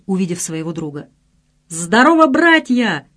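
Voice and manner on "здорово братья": loud, high hail to mates; shouted greeting. A narrator's reading. Son hailing his three friends below, shouting. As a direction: call out to them with open arms. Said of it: "закричал Саша".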